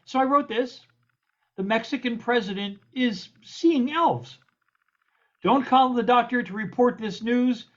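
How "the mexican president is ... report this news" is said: lilting rhymed verse read to an audience; comic poem recitation. Acted. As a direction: recite light satirical verse, leaning on the rhymes.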